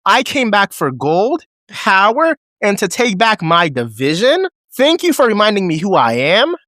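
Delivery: high, hammed-up parody of a wrestling promo; mocking Nikki Bella. Fan mocking Nikki Bella's terrible promo, high parody voice. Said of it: "These were Nikki Bella's exact words".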